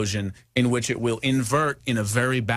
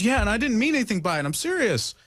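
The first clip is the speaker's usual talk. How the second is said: retold friend; 9 semitones higher, faster than usual. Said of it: "And she goes".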